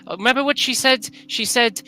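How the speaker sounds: put-on high, loud pleading child; little girl voice. Daughter quoting her mother to comfort her papa, high and loud. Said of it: "And she says".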